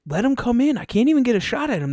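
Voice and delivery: high mock complaint, run fast; mocking buddy. Dad mocking Dave's complaint, high whiny voice. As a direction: whine it like the buddy. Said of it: "And he's like".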